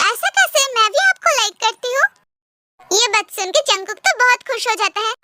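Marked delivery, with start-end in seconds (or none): 0.1-2.1 pitched well up in quick disbelief; startled protest. Acted. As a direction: blurt it, caught off guard. Tae protests she likes him. (चौंककर ऊँची आवाज़ में)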